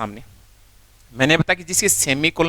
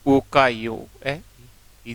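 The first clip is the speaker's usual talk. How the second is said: ऊ का यू ए, ई drawn out very slowly; slow sounding out; 3 semitones lower, slower than usual. Shown as a demonstration. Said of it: "तो क्या हो जाएगा?". (धीरे-धीरे ध्वनियाँ बोलना)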